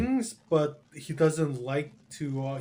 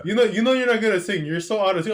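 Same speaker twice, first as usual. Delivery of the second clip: fast, louder mock mom nagging; mom scolding; 4 semitones higher, 5 dB louder, faster than usual. Mom telling son he sings out of tune, fast and louder. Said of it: "my mom said".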